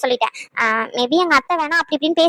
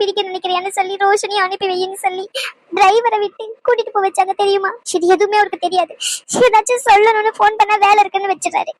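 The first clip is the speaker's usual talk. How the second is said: tearful; 3 semitones higher than usual. Acted. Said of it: "சரி, அழுகாதீங்க".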